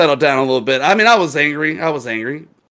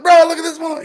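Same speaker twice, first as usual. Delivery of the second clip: very high, louder aside; retold disbelief; 6 dB louder, faster than usual. Bartender flagging down the GM, high incredulous call. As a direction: call a colleague over in high-pitched disbelief. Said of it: "I was like".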